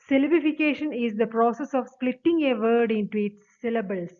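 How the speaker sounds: each word of the definition read out very slowly; slow rule reading. Acted. Teacher reads the definition to students, slow dictation. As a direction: dictate it to the class.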